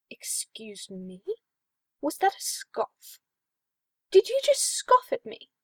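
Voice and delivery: whispered then rising high and loud; mock-offended priest growing shrill; offended disbelief. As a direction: build from a hushed gasp to a high outraged squeak. Sebastian offended by scoff.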